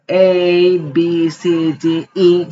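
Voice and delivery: A, B, C, D, E said as English letters, "ay, bee, see, dee, ee"; English letter names. Shown as a demonstration. Teacher reciting the alphabet, A, B, C, D, E with English names. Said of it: "pronunciando el alfabeto en inglés".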